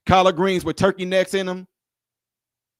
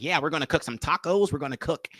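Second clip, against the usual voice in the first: softer, lower bland white-guy voice; mock a very plain white cook; softly parodying a white restaurant owner; pale white guy impression; 4 semitones lower, 6 dB quieter than usual. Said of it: "white people who talk just like this".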